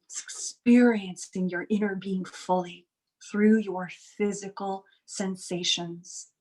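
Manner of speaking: measured meditation guide with long pauses between phrases; guided meditation. Real, not acted. Teacher easing workshop group into relaxation, guided meditation. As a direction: lead them into calm, unhurried, lingering on key words.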